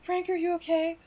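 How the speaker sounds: hammed-up worry, calling his name; secretary shrieking at her collapsed boss in mock alarm; mock panic.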